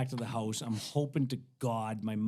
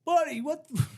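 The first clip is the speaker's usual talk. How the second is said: high, loud shout across a range; imitated angry yell; 5 dB louder, slower than usual. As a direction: call out like an irate range boss. Range boss yelling at Greg.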